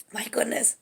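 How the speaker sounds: soft, overcome aside; emotional. Real, not acted. Medium feeling the loved one's energy, quietly emotional. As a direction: let the feeling hush you mid-thought. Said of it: "like, emotional".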